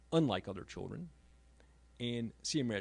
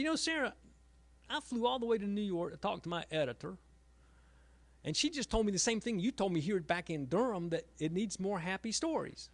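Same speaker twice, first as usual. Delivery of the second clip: higher, a touch louder, eager father telling news; eager retelling; 7 semitones higher, 4 dB louder than usual. Retold or imitated. Father telling daughter the editor agreed with her, raised and eager. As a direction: pitch it up like excited news.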